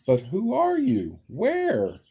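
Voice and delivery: high, eager call into the air; searching call. Acted. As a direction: call out looking all around. Horton calls out searching.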